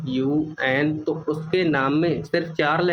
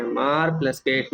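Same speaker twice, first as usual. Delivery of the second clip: slow syllable split. Shown as a demonstration. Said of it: "और मैं ये word बोलूँगा".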